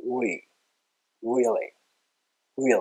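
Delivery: American "really" with rounded, W-like R; American English accent. Shown as a demonstration. Teacher shows learners the American accent, pursed W-like "really". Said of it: "口すぼませてね、".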